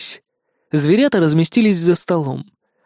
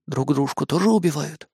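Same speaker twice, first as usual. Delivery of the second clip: curious hedgehog; 5 dB quieter than usual. Acted. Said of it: "уточнил любознательный ёжик".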